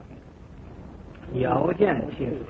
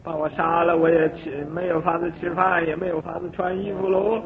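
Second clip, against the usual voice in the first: higher, anxious imagined worrying; fearful inner voice; 4 semitones higher than usual. Retold or imitated. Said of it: "自己这么想". (提高声调、惊恐地自言自语)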